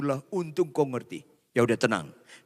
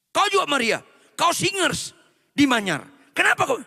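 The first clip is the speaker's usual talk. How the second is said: angry father; 5 semitones higher than usual. Acted. Father berating Yusuf over the pregnancy, angry and rising. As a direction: scold him like an outraged father. Father confronts daughter's boyfriend.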